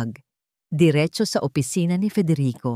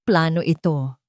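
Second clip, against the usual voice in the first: shout. Acted. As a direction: yell it at Federico in fury. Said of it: "Sigaw ni Alicia". (sigaw ng galit kay Federico)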